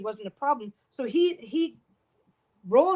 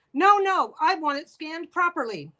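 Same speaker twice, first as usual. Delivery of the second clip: mimicked demanding customer; 5 semitones higher, slower than usual. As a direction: whine it like a pushy customer who wants his way. Customer demands proper scanning.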